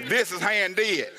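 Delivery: slow, drawn-out mock Texas accent. Preacher repeating the saleswoman's correction, exaggerated Texas accent. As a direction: stretch it out like a Texan, imitating her. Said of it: "That's an accent".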